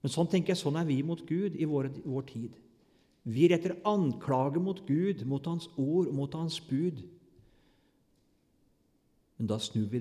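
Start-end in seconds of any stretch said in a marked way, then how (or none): 3.3-5.2 louder and slowed for weight; slow emphatic preaching. Real, not acted. Preacher to congregation, slow emphatic point. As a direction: lean on every word. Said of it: "preacher stresses accusation".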